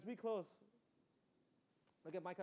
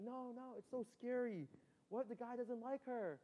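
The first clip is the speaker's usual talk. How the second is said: imitating scared mom; 6 semitones higher than usual. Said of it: "But she's like".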